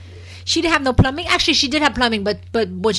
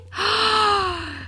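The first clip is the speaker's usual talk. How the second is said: mock gasp; 8 semitones higher, 3 dB quieter than usual. Mocking Greenlee's reaction.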